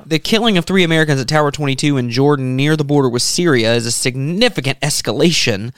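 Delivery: measured, serious news-reading delivery. Real, not acted. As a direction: read the report evenly, like a radio bulletin.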